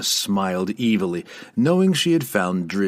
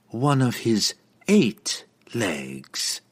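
slow cruel reveal; 2 semitones higher, much slower than usual. Acted.

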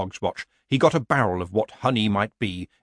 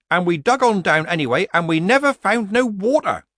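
higher, louder yokel telling a tale; nervous rustic villager; 9 semitones higher, 6 dB louder than usual. A narrator's reading. Villager Hampicker reporting to Nanny Ogg, nervous.

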